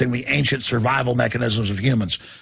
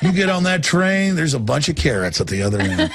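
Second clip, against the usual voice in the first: dismissive handler; 4 semitones higher than usual. Retold or imitated. Handlers coaxing onto train.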